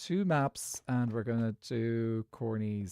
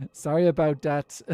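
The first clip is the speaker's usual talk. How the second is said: put-on loud, higher Irish-accented catchphrase; 4 semitones higher, 8 dB louder than usual. Streamer repeating the joke drag name, Irish accent. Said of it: "saying it in a very Irish accent".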